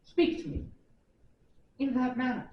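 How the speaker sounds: near-whispered cold threat; menacing hush. Acted. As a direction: drop to a dangerous hush. Finishing the threat after a long pause.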